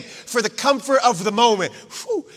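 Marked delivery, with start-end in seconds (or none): 1.7-2.3 relieved whew. Retold or imitated. Peter relieved after lie.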